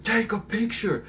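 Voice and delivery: bully yelling at Peter; mock bully taunt. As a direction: shout the taunt in a put-on voice. Flash taunting Peter again.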